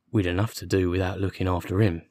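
mildly aggrieved constable. Acted. Constable defending himself to the detective, mildly aggrieved. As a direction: protest with a touch of grievance. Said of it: "said in an aggrieved voice".

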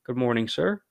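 courteous greeting, gently rising on sir; polite formal greeting. Shown as a demonstration. Student greeting a teacher, polite and formal. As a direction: greet a superior respectfully. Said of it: "we can say".

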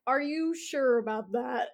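slow, giggling question; laughing doubt. Retold or imitated. Hero questions the mob boss, laughing. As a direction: ask it slowly through laughter. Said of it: "And I'm like".

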